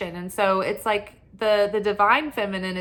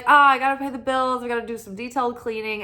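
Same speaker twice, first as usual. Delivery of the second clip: quick, higher-pitched rattle of to-dos; mock frazzled; 4 semitones higher, 3 dB louder, much faster than usual. Creative putting off work for chores, mock frazzled. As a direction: rush it like a mildly harried list-maker. Acted thought about pressing chores.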